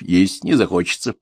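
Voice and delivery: plain reading voice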